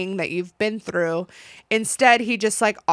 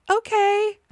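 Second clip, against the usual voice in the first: high-pitched, agreeable "okay"; mock gullible agreement; 12 semitones higher than usual. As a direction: agree in a much higher mimicking voice. Gullible woman agrees to anything.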